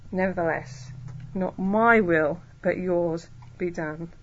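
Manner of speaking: submissive, unhurried prayer; humility. Retold or imitated. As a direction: yield gently, word by word. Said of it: "And that's humility".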